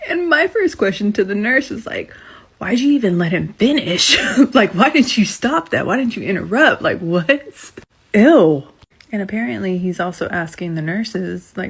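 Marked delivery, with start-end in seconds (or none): 2.6-7.7 rising, louder disbelieving questions; retold shocked disbelief with a laugh; incredulous question. Retelling shocked question to nurse. 8.1-8.6 loud grossed-out ew; disgusted ew. Real, not acted. Reacting with disgust.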